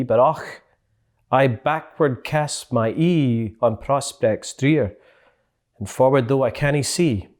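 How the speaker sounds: a tender Scottish reading of the poem's end; Scots poem recital. Shown as a demonstration. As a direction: recite it slowly in broad Scots with feeling. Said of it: "this is how the poem ends".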